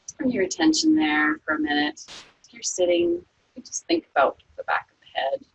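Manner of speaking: calm, unhurried body-scan voice; guided meditation. Acted. Yoga teacher guiding students through a resting body scan, calm meditation voice.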